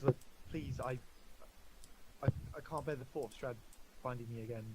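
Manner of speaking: soft, halting plea; understated fear, faltering with pauses; quiet pleading. Acted. Game master as Irene begging for somewhere safe, quietly fearful. Frightened character pleads for safety.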